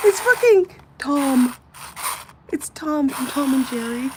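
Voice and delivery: thrilled reveal of a thrift find; excited shout. Real, not acted.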